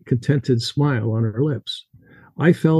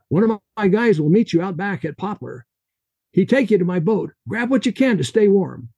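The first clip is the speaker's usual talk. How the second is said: put-on Russian accent; 6 semitones higher than usual. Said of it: "His Russian accent heavy".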